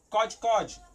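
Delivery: cod, cod said loud with an O vowel; O sound. Shown as a demonstration. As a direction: punch out cod, cod, both with O. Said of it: "ela tem som de".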